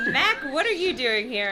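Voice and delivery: a touch of startled choked demand; understated choked-out question. Acted. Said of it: "I choked out".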